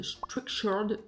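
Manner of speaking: French-accented try at English "Structured". Shown as a demonstration. Vlogger naming her planning app, attempted English accent. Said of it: "avec mon super accent anglais".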